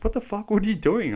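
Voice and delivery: high-pitched mock disbelief; incredulous quote. Teammate confronts the filthy volunteer at the hotel, incredulous. Teammate exclaims at dirt-covered teller.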